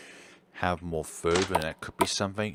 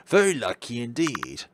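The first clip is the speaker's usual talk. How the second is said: 1 doctor character voice; 3 semitones higher than usual. Acted. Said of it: "I'm gonna drop this voice".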